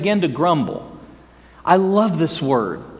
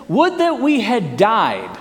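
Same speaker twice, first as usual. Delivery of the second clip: mock grumbling; 3 semitones higher, slower than usual. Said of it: "they grumble and they say this".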